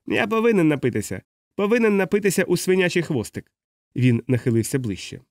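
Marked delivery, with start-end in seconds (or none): 0.1-3.5 put-on higher-pitched drunken announcement; drunk declaration. A narrator's reading. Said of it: "він оголосив". (п'яна заява високим голосом)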